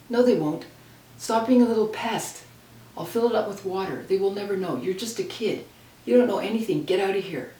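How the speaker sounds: loud, scornful telling off; angry brush-off. Retold or imitated. Older sister snapping at her little sister to get out, loud and scornful. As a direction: shove the pest away with your voice.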